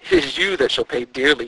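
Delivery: loud eerie ghost bellow. A narrator's reading. The ghost turning the threat back, bellowing. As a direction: boom it like a vengeful spirit. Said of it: "he bellowed".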